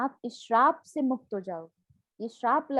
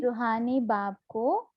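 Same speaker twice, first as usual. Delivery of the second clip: slow call to repeat; slower than usual. Shown as a demonstration. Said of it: "फिर से बोलो".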